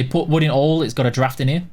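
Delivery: very Barnsley Yorkshire dialect; Yorkshire accent. Shown as a demonstration. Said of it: "that's some Yorkshire accent for you".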